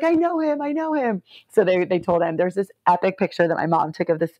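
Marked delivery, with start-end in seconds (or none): 0.0-1.2 urgent claim. Retold or imitated. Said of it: "I was like".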